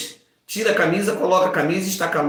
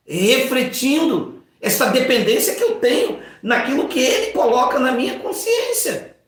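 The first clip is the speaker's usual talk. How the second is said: usual speaking voice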